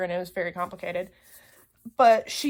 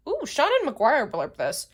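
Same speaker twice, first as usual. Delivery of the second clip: excited ooh; 4 semitones higher than usual. Real, not acted. Excited discovery of a blurb.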